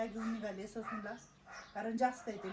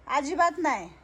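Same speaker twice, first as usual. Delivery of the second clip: loud reassurance; 2 semitones higher, 13 dB louder than usual. Real, not acted. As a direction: speak up clearly so grandma hears and calms. Caretaker loudly reassuring elderly woman.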